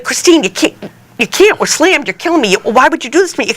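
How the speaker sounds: mock the panicked manager begging; pleading manager. Boss begging her not to quit.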